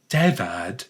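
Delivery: slow, theatrical Moira Rose. Pretend. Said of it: "I need to do Moira Rose".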